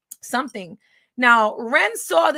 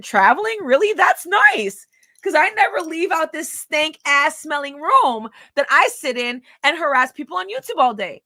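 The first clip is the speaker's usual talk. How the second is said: mock high sneering voice, building; mocking him; 5 semitones higher, 5 dB louder than usual. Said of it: "I just made that part up".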